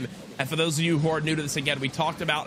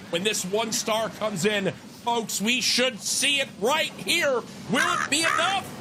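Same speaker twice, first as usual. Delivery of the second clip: higher, slower, building caster hype; hyped play-by-play; 10 semitones higher, slower than usual. Real, not acted. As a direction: build tension toward the kill. Build-up to the finishing hit.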